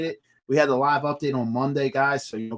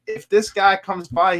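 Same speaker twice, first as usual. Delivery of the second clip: slow, louder, higher laying out the rule; slow instruction; 6 semitones higher, 6 dB louder, slower than usual. Retold or imitated. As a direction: spell out the test deliberately. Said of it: "he's like".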